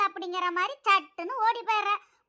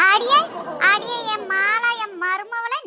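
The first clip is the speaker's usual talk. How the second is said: loud calling out; 6 dB louder, slower than usual. Acted. Mother-in-law calls daughter-in-law.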